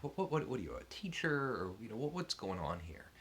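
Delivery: mock a puzzled, irritated demand, rising high then easing down; mildly irritated. Young writer questioning the stranger editing his paper, mildly irritated. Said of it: "I'm getting irritated".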